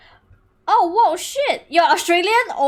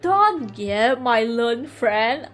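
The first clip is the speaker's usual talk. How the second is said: put-on slow, drawn-out drunk voice; drunken prosecutor; slower than usual. Wine-soaked prosecutor to learned friend, slow drunken voice. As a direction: play it sleepy and intoxicated, dragging the words. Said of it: "like, fucking intoxicated".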